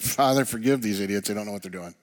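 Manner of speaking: mock prayer with a sarcastic edge; dripping-with-irony plea, lightly hammed up. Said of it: "Maybe you hear it sarcastically".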